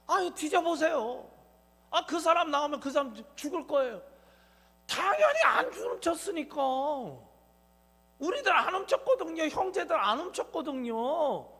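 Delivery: bold, loud, indignant innocence; confident protest. Pretend. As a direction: protest your innocence boldly. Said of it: "당당하게 얘기하는 거예요".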